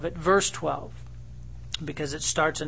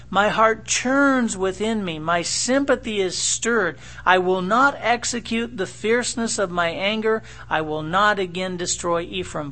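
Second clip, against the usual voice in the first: pleading; 4 semitones higher, 4 dB louder than usual. Acted. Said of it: "listen to the heart of God plead here".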